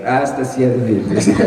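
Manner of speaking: slow, amused, laughing. Real, not acted. Author adds a wish, still laughing. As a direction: draw it out with a chuckle. Joking about age.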